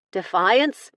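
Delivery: shocked at what she hears; scandalised cry of the name; appalled. Acted. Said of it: "more appalled than hesitant".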